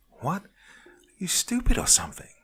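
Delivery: high, breathy hiss under the breath; whisper-scold him sharply. A narrator's reading. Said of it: "she hissed at me under her breath".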